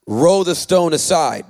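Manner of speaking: loud, slow order; firm command. A narrator's reading. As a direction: command it slowly and forcefully. Voices Jesus giving a command.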